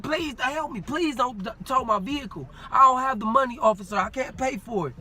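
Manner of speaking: half-voiced hysterical begging; imitated screamed plea. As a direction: act out begging for the neighbors to hear. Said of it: "I started screaming".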